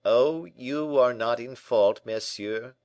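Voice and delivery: slow, lifted, polite reassurance; mildly acted servant courtesy; gracious. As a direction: excuse your master graciously.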